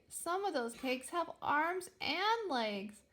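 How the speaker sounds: high, slow, squeaky and alarmed; squeaky alarmed whisper-ish. Acted. Astra to Pilbeam, spotting cakes, high squeaky alarm. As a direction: Astra squeaks in fright at the screen. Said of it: "she squeaked".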